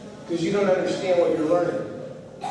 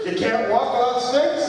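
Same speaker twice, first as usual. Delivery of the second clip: high, incredulous mock question; mock disbelief; 7 semitones higher than usual. Teasing his brother-in-law about the sticks, mock incredulous. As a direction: sound amazed he needs sticks.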